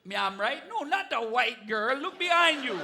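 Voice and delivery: lightly put-on Jamaican accent. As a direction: tease the audience in a mock Jamaican accent. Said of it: "You're an albino Jamaican".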